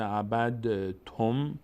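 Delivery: عبد تم with a vibrated "d-e" before تم; bounced dal. Shown as a demonstration. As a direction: slowly bounce the d of عبد, then say تم. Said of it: "دال رو تلفظ کنیم باید قلقلم بشه".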